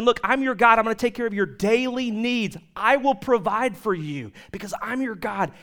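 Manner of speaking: lightly voiced God, confident; God reassuring. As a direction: proclaim it as God to his people. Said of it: "he was saying".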